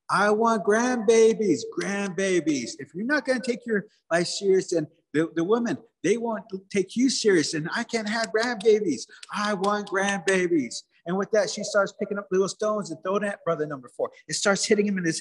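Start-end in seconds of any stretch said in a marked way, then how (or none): 0.1-10.8 nagging mother. Acted. Mother who wants grandbabies to her son, mock nagging. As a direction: nag him with a hammed-up, pleading whine.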